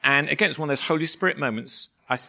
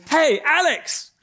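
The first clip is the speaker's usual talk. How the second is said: high, drawn-out call across a field; imitated yell; 12 semitones higher, 5 dB louder, much slower than usual. Teammate hailing a friend across the field, imitated yell. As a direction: holler the name, slow and loud. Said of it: "he yells, he goes".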